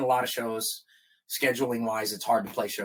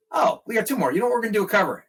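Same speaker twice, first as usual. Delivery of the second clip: high, loud cheeky comeback; cocky singer; 10 semitones higher, 7 dB louder, much faster than usual. Retold or imitated. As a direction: throw it back gleefully at the sound guy. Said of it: "he goes".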